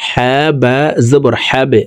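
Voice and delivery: "হ্যাবে" closed on a short bouncing b; letters joined. Shown as a demonstration. Teacher showing viewers how to join the silent letter, spelling demo. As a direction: spell out "হ্যাঁ বা জবর হ্যাবে", binding the b to the vowel before. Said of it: "এভাবে উচ্চারণ করব".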